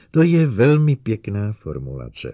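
loud, cutting retort; snapping back. A narrator's reading. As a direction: snap the compliment back sourly. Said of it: "odsekla doktorka Kelvinová".

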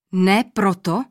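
put-on king's surprised question to the old man; surprised exclaim. A narrator's reading. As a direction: ask it in astonished disbelief. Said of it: "zvolal překvapeně král".

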